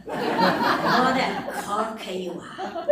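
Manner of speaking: laughing through a slow Irish line; chuckling Irish accent. Retold or imitated. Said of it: "I'm gonna have to do the Irish accent for you then".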